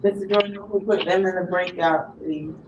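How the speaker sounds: ordinary delivery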